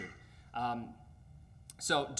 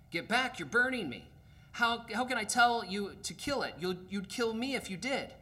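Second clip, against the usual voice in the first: much higher, alarmed cry; panicked ghost; 9 semitones higher than usual. Acted. Ghost panics as the angel's hands burn him. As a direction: shrink back from the burning hands.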